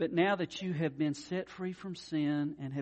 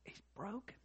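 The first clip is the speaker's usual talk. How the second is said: softer, higher, hushed broken; soft sorrow; 5 semitones higher, 12 dB quieter than usual. Real, not acted. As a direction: let broken fall away softly.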